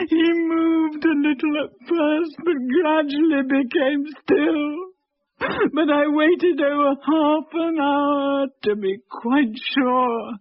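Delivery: a wife's anguished tearful recollection; breaking into tears. Acted. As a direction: let the grief break through as he dies. Watching husband hanged on the gallows.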